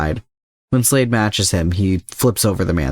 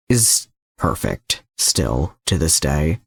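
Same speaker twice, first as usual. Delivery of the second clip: reverent; 5 semitones lower, slower than usual. Acted. Slade recalls Robin.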